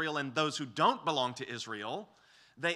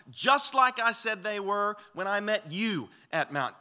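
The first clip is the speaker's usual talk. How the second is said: higher and louder, building with conviction; fervent divine promise; 7 semitones higher, 6 dB louder than usual. Retold or imitated. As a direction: proclaim it as God overruling every doubt. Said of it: "he would say something like this".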